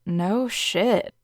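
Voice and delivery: deadpan sarcastic jab; heavy sarcasm. Acted. Student to the pushy saleswoman, heavy sarcasm. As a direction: drip with sarcasm, flat. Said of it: "I said with heavy sarcasm".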